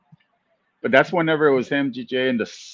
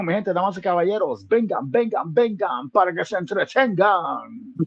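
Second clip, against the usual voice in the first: lucha libre announcer; 5 semitones higher than usual. Pretend. Announcing the show in Spanish.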